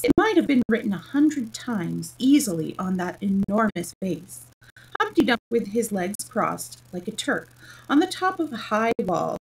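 animated read-aloud storytelling; story narration. A narrator's reading. Reader telling Alice's tale to a stream audience, animated narration.

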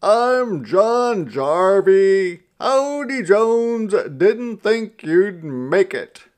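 put-on loud, high Scots-accented greeting; thick Scots brogue. A narrator's reading. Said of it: "He said in a thick Scots brogue".

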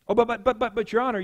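acted, stuttering objection; stammering protest. Sinner objects to God's verdict, mock stammering protest. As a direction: stumble into a hasty excuse.

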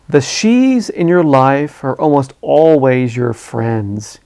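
slow, settled unexcitable tone; calm again. Acted. Reporter teasing Wade calmly about his lady friend. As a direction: ease back into his calm self. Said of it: "non-excitable nature returning to his voice".

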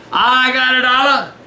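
brighter, playful repeat of "dollar"; excited. Shown as a demonstration. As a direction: say it again with glee. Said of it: "repeated louder".

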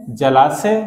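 जलाशय said clearly, each syllable distinct; careful pronunciation. Shown as a demonstration. Teacher showing students how to say जलाशय, careful pronunciation. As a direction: pronounce जलाशय cleanly with a clear श. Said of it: "मैं आपको उच्चारण करके बता देता हूँ".

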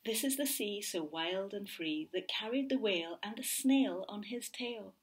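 put-on gentle read-aloud to a child; storybook reading. A narrator's reading. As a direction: read it like a bedtime picture book. Reading a picture book aloud.

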